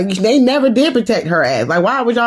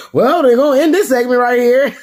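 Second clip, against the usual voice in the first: laughing mock announcement; 5 semitones higher than usual.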